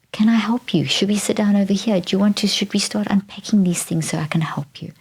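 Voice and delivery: calm, tender reassurance; gentle talking. Shown as a demonstration. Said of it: "do this gentle kind of talking and say".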